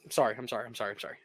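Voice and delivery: quick, quiet, grovelling apologies; cringing submission. Real, not acted. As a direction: beg forgiveness, shrinking away. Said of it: "I apologize".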